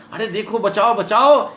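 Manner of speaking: high, urgent call for help; mild stage panic; acted alarm. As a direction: cry out as if summoning rescue. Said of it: "घबराहट के साथ बड़े जोर से".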